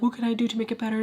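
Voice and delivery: simpering mock plea in a put-on voice; mock pleading. Mocking how women plead with a toxic man, in a simpering put-on voice. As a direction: ham up the desperate, pleading girlfriend. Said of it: "Don't be like".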